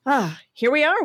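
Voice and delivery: soft charity ad voice. Acted. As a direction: plead softly like a charity commercial. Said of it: "when you do that voice".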